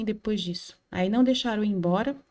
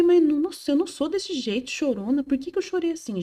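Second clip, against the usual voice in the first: surprised outburst; 5 semitones higher than usual. Retold or imitated. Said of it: "Eu falei".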